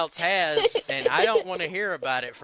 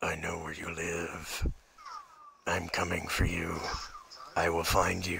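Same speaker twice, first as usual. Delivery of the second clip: heavy breathing phone whisper; 9 semitones lower, 6 dB quieter than usual. Pretend. Creepy stalker phone.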